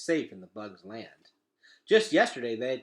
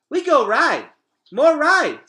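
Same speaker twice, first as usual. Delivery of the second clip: put-on much higher and louder, a toddler demanding more; excited toddler; 15 dB louder, slower than usual. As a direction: shout it like a gleeful little kid. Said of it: "said Boots".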